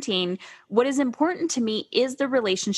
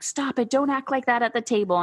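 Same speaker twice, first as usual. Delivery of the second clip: higher-pitched mock scolding; controlling parent; 5 semitones higher than usual. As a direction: imitate a controlling mom correcting her son at dinner. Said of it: "trying to be all, like, controlling".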